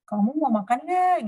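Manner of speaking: suara lebih tinggi, ramah ke anak; tanya manis seperti ke bocah; nada tanya ke anak kecil. Shown as a demonstration. (psikolog bertanya lembut pada anak)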